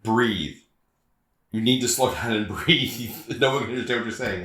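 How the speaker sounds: acting coach. Acting coach telling a student to breathe, lightly imitated coach. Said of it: "acting coach was like".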